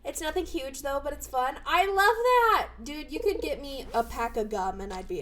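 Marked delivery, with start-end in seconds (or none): 1.6-2.7 high, loud, drawn-out delight; stretched, excited exclamation; delighted gushing. Real, not acted. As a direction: gush slowly with glee. Delight at being given gifts.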